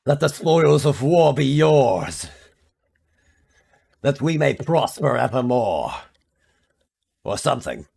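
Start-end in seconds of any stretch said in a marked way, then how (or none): 0.0-5.9 overly dramatic flair. Pretend. Streamer hamming up a grand blessing to chat. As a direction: declaim it like a noble lord. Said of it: "I like saying words with an overly dramatic flair".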